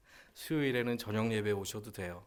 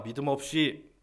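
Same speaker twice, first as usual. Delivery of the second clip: loud, higher scolding; mock rebuke; 4 semitones higher, 7 dB louder than usual. Preacher voicing a rebuke Jesus never made, scolding. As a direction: scold reproachfully, voice raised. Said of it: "이렇게 책망한 것이 아니었습니다".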